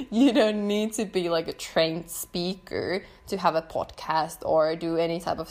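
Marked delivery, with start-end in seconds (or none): 0.1-1.3 words spilling through a laugh. Real, not acted. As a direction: keep laughing as you say it. Laughing while reassuring listeners.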